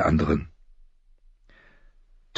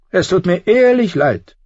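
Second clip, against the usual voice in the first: gentle Tyrion; 12 semitones higher, 4 dB louder than usual. A narrator's reading. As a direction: offer real sympathy. Tyrion comforts John.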